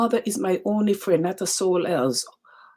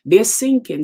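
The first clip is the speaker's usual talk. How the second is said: "sinking" hit hard and louder, falling at the end; louder emphatic repeat; 3 semitones higher, 6 dB louder than usual. Real, not acted. Preacher repeats to the congregation, louder and emphatic. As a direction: drive the word "sinking" home.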